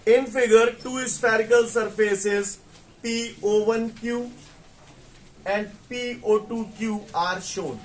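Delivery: slow, word by word, like dictating to a class; very slow dictation. Shown as a demonstration. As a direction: spell each phrase out slowly so students can write it. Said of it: "मैं बहुत धीरे धीरे बोल रहा हूं".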